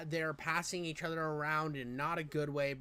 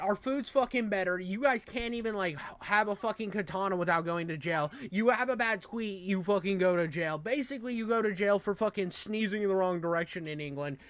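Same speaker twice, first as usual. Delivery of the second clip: mock comeback; 2 semitones higher than usual. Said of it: "I'm like".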